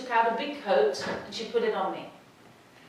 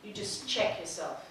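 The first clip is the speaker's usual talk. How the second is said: inner voice; 2 semitones lower, 5 dB quieter than usual. Retold or imitated. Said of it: "a voice in my head".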